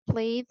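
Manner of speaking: "played" ending in a voiced d. Shown as a demonstration. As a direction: say "played" as one syllable closing on d. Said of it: "the E D as th".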